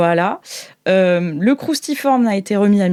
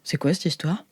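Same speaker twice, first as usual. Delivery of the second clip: surprised; 5 semitones lower, 9 dB quieter than usual. Acted. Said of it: "qui fait".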